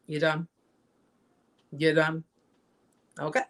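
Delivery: calm, unbothered father. Retold or imitated. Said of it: "he did it in a very calm manner".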